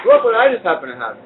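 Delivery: talking with a mouthful; words round a bite of food; mouth full. Real, not acted. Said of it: "I'm talking with my mouth full".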